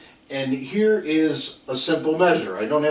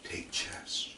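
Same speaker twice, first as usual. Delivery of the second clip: player's drill cue; 13 dB quieter than usual. Retold or imitated. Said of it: "on a chest read say".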